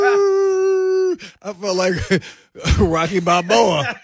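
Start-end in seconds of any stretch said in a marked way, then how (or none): 0.1-1.2 high, sharp exclamation; shout. Retold or imitated. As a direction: yell it out. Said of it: "I was like".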